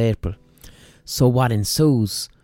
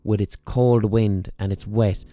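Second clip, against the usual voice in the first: cocky cow. Retold or imitated. Cow talks trash about March, lightly mocking. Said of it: "she gets cocky about March".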